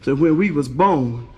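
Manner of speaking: low-pitched heavy-voiced little boy; deep, deadpan explanation. Triplet explains to the teacher, heavy low voice. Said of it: "the one with the heavy voice".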